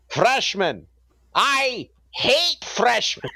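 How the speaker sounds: slow, high German accent, hammed up. A German professor greets freshmen in a hammed-up German accent. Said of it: "in his strong German accent".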